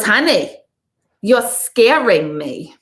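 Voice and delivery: imitating the psychic, slowed on the second line; mock psychic sympathy, slow and firm; Mary O voice. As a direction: drawl it like a blunt radio psychic. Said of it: "she says I do the voice great".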